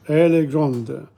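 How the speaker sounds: d pronounced in grande; grande, sound the final d; feminine form. Shown as a demonstration. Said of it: "You pronounce the end part".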